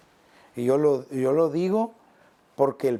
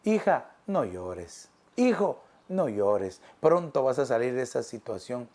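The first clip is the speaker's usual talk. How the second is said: tender; 4 semitones lower than usual. Acted. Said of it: "Hoy el Señor te dice".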